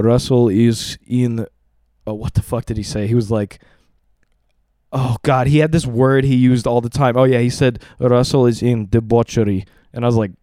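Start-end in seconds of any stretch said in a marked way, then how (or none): 0.0-1.5 slow Russian-accented dad impression; imitated Russian accent, measured delivery. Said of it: "in his Russian accent". 8.0-9.7 imitated Russian-accented dad; retold in a Russian accent. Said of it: "in his Russian accent".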